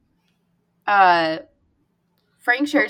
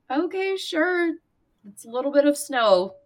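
sarcastic, higher; 3 semitones higher than usual. Retold or imitated. Emma mocks the panic.

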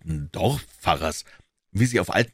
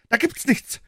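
put-on wailing old man. A narrator's reading. Old man wailing from the doorway at the intruders. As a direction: call out in a high, whining wail. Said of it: "jammerte der Alte".

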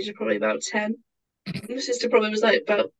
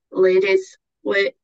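put-on half-started accent; 5 dB louder, much slower than usual. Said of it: "I'm not doing the accent".

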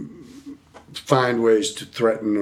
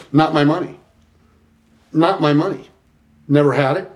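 insisting; 6 semitones higher, 5 dB louder than usual. Retold or imitated. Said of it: "And I said".

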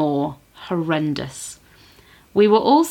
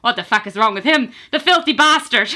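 imitating disgusted customers; 5 semitones higher than usual. Customers jeer at the pooey man in a laughing mock yell. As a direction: play the appalled punters jeering. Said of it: "customers are shouting".

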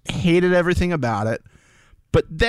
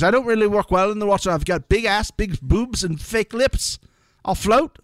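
lightly voiced reality contestant, higher pitch; Chloe; 5 semitones higher than usual. Host quoting contestant's introduction to the show, lightly impersonating her. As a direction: put on a higher voice for a quoted cast member. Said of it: "She goes".

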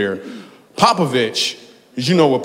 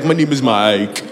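mock German accent. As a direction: imitate a guest with a German accent. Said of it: "It was like a German accent".

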